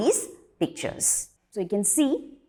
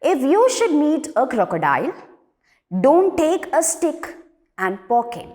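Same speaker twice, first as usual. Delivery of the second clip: measured classroom poem reading, a little raised; poem recitation; 4 semitones higher than usual. Acted. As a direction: read the poem out line by line, with pauses. Rereads first two lines.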